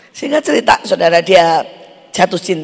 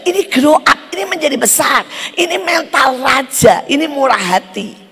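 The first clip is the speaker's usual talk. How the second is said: proclaiming voice; 7 semitones higher than usual. Retold or imitated. God's words retold in sermon.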